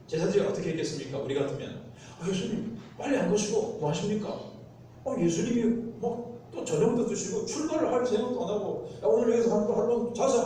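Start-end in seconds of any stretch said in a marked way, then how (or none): 2.2-10.4 higher, exasperated nagging; impatient complaint. Retold or imitated. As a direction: hurry the teacher up, fed up. Disciples' impatient complaint acted. (제자들이 예수께 답답해 재촉하듯)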